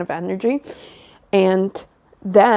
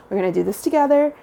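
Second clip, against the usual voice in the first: higher, fast rallying push; rally the viewers like a cheerleading friend; quick upbeat we-can-do-it; excited encouragement; 6 semitones higher, faster than usual. Real, not acted. Pep talk to viewers.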